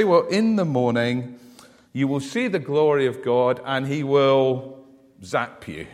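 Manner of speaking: lightly acted God about to strike; imagined wrathful God. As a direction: pretend a stern divine threat. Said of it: "if I was God, you know what I'd say".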